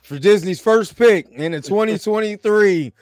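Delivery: measured mock-formal announcement; NFL draft announcer. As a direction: announce the first pick to a waiting hall. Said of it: "announce that shit like the N F L draft".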